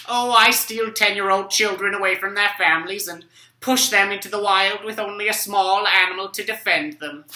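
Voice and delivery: lightly voiced old professor, matter-of-fact; a hint of a cheerful old scholar. Old professor to the kids, explaining his job: lightly voiced old man.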